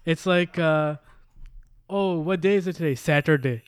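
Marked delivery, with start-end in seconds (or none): 1.9-3.6 put-on light South Asian accent on English words; brown accent. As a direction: slip into a brown accent for the parents. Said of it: "say it with a brown accent".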